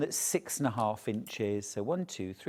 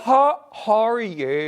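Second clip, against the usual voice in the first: better Northern Irish accent, slow; a loud, slow Northern Irish accent; 6 semitones higher, 7 dB louder, slower than usual. Shown as a demonstration. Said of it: "Now you're better".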